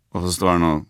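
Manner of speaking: normal talking voice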